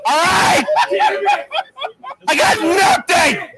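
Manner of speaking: high shouting after a nose injury; pained shouting. Real, not acted. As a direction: yell it out, half laughing in pain. Just hurt his nose.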